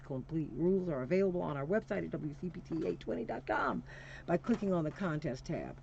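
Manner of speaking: upbeat radio promo read; radio contest promo. Acted. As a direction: sell the giveaway like a DJ. Host reads ticket giveaway promo.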